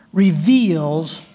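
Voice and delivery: "reveals" drawn out slowly and set apart; stress on reveals. Real, not acted. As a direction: lean hard on "reveals", stretching it. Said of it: "I want to emphasize the word".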